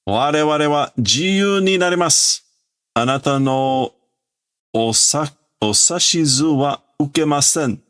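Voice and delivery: lightly voiced rebel robot; defiant robot. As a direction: declare freedom to the old master. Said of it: "this is a robot or the robot saying".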